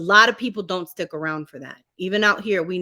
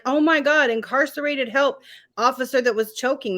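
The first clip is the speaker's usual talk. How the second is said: mock shocked; 4 semitones higher than usual. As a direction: play the shocked public. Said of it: "so shocked".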